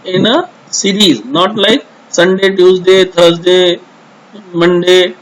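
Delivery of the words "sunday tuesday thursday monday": slow, level-toned list of days; jumbled-order example. Shown as a demonstration. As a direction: recite the days as a wrong example, evenly spaced. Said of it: "not like this".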